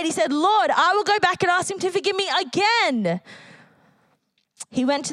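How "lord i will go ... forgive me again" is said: a higher, pleading cry. Retold or imitated. Alfred crying out his promise to the Lord, higher and pleading. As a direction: lift it up like a man crying to God. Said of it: "And Alfred cried".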